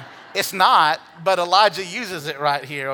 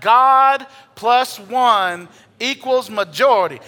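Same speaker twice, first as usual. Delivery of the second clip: loud, slow congregational declaration, higher; 4 semitones higher, 7 dB louder, slower than usual. Shown as a demonstration. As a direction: call it out to your neighbour. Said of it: "say that out loud".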